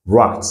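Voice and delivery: rat with a short flat A; model word. Shown as a demonstration. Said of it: "nous avons rat".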